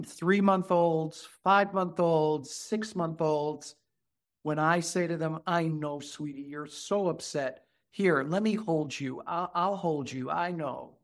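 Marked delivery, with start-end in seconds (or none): 5.5-11.0 put-on mildly softened comforting of a baby; gentle soothing. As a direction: reassure an upset infant gently, easing softer. Soothing upset babies.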